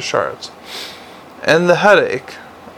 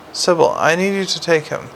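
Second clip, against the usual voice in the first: slow and clear; 2 semitones higher than usual. Acted. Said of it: "speaking slowly and clearly to get through the shock".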